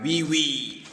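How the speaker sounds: a mock pig squeal, lightly voiced; piglet squeal. A narrator's reading. Teacher reading the pig's cry to the class, mock squeal. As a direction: crow it out like a little pig. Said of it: "he cried".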